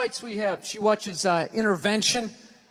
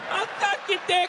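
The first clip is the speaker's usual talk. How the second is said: imitating meth addict; 9 semitones higher than usual. Repeated imitation.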